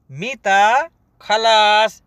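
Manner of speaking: "मीता खलास" said slowly, stretching "खलास"; slow teaching repeat. Shown as a demonstration. Teacher repeats the question slowly for learners. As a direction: pace "मीता खलास" out for students.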